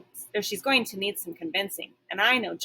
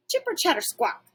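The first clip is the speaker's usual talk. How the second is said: a higher, chattering squirrel taunt; squirrel screech; 8 semitones higher than usual. Acted. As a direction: chitter it like a cheeky squirrel. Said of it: "he screeches".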